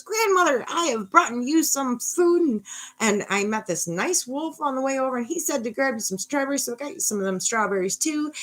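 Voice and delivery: put-on high-pitched little girl voice; Little Red. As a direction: chirp it like a storybook girl visiting Grandmother. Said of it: "And she goes".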